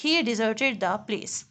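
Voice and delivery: slow, careful example read; deliberate teaching pace; slow example sentence. Shown as a demonstration. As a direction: say each word slowly for the learner. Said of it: "किसी को तन्हा छोड़ देना".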